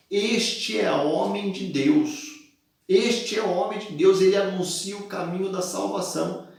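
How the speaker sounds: mock the girl crying out after Paul; clamoring cry. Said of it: "clamava dizendo".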